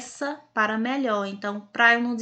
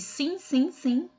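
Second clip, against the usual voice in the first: ironic; 6 semitones higher, slower than usual. Acted. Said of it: "quem está sendo irônico? O papel higiênico".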